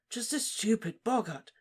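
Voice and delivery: calm her down gently; soothing. A narrator's reading. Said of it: "he said soothingly".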